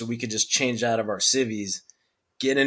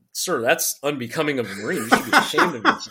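mock scolding; 2 semitones higher than usual. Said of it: "No, I'm just kidding".

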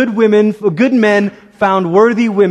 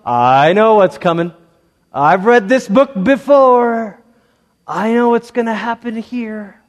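knowing reader. Acted. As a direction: play the reader who has seen it all before. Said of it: "you're gonna say to yourself".

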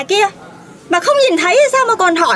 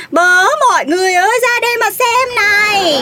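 calling out to everyone. Acted. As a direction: summon the crowd, dragging out the words. Calls bystanders to come and see.

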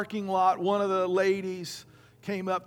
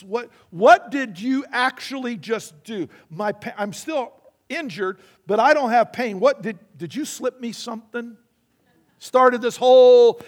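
louder, higher, slowing astonished questioning; bewildered woman, rising to a near shout; amazed questions; 4 semitones higher, 8 dB louder than usual. Retold or imitated. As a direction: voice the woman's disbelief, building loud. Stunned woman questions the praying stranger.

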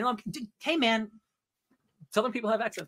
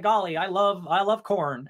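folksy Superman impression; slower than usual. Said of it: "He's like".

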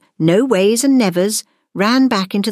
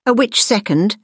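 slightly raised, knowing aside; amused correction; 5 semitones higher than usual. A narrator's reading. Teacher admitting she is a witch, mildly amused. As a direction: add it with understated amusement. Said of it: "corrected with a hint of amusement".

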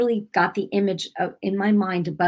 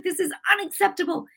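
mad; 11 semitones higher, faster than usual. Retold or imitated. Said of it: "I was mad".

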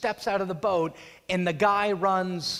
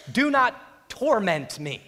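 loud, slow, higher-pitched plea; pleading; 4 semitones higher, 5 dB louder, slower than usual. Acted. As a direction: beg loudly and slowly as the demons. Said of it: "and plead with him".

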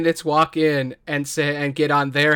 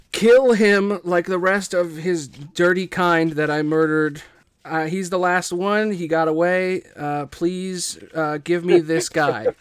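reading a villain's letter. Acted. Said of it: "It says, and I quote".

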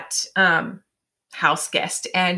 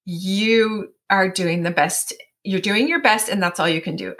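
reassuring affirmation. Shown as a demonstration. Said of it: "here's my power statements".

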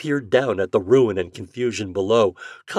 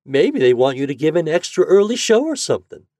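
higher, louder, upbeat mother; cheerful suggestion; 8 semitones higher, 7 dB louder than usual. A narrator's reading. Mother cheering up her worried boy, cheerful. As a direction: offer a hopeful guess brightly. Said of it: "She suggested it cheerfully".

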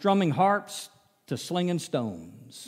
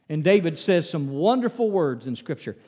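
ordinary talk, nothing marked

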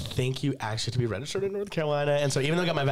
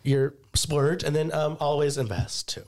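losing her voice, hoarse; slower than usual. Real, not acted. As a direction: talk through a hoarse, worn throat. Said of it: "Sorry, I have no voice".

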